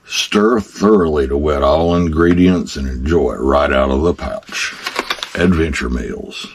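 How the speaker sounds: reading the label like a commercial; mock ad announcer read. Reading package instructions like ad.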